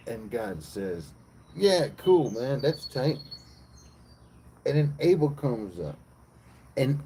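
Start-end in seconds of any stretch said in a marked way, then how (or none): 1.5-3.2 lightly voiced God, pitched up; a breezy, higher-pitched approval; casual God. God telling Cain his offering is fine, casual.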